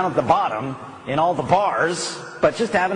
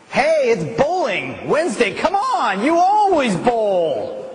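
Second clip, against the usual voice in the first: tempting friend; 9 semitones higher, 4 dB louder, slower than usual. Pretend. Imagined friend tempting the listener.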